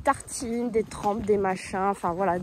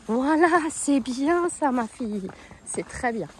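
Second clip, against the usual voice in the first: doux éloge; slower than usual. Real, not acted. Félicite la jument, voix douce.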